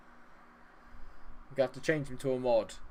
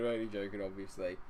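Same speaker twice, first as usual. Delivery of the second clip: softer, lower, settling the joke; quiet reassurance; 4 semitones lower, 5 dB quieter than usual. Real, not acted. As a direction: say it gently so he knows. Teasing a viewer, then softening.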